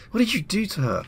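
alarmed demand. Acted. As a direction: shout at the witch to let her go. Girl confronts witch.

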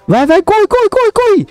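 frantic, high, rising urgency; racing the clock. Real, not acted. Timer running out in race.

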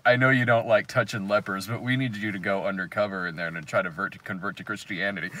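mock boss voice. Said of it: "they're like".

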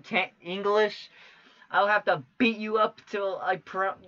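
flustered. Real, not acted. Fumbling the reading, frustrated.

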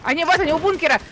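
excited callout. Real, not acted. Spotting enemies, knocking one.

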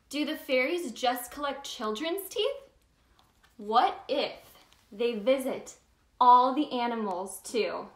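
gentle storybook narration; reading to children. Acted. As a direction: read it like bedtime story time. Reads picture book aloud.

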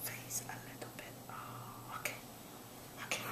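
whispered good food; whispered praise. Real, not acted. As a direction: breathe the praise softly. Whispering to baby.

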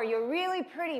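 high, put-on casting director praise. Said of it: "all the casting directors telling me".

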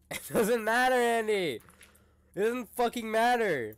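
high, loud outburst; mock-furious yell; exasperated shouting. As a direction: shout down his excuse. Mock argument, shouting over Andy.

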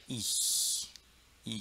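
"I" followed by a long soft hiss of air; soft German ich sound. Shown as a demonstration. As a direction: let the air pass after "I". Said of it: "Fica tentando até sair". ("I" soltando o ar, como em ich)

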